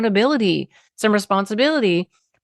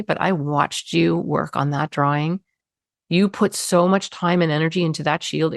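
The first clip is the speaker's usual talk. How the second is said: calm statement. Retold or imitated. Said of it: "mirroring calm statement".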